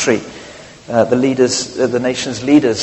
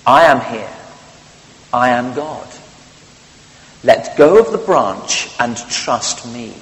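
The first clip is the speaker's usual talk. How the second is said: voice from heaven. Acted. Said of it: "a voice comes from the heavens".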